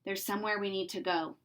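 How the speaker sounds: quiet, serious and gentle; Harry breaking hard news to Winnie. Acted. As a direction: say it softly, weighed down by the news. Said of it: "said in a serious way".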